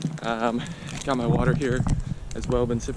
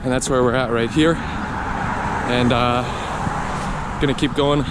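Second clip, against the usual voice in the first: talking mid-run, a bit breathless; while running. Real, not acted. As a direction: speak while jogging along. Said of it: "just running along".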